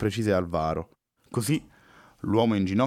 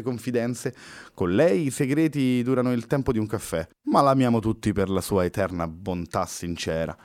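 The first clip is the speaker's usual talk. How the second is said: upbeat; 3 semitones higher than usual. Acted. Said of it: "con un'inaspettata positività".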